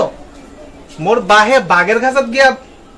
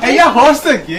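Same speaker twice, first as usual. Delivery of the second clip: laughing mockery. Husband mocking his Sylheti wife's boast, laughing. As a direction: say এইয়া হরছে কি with a laugh breaking through.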